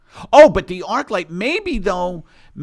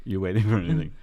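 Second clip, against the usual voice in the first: Asian accent; 2 semitones lower, faster than usual. Shown as a demonstration. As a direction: redo the Asian accent on request. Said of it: "Can you repeat that Asian question".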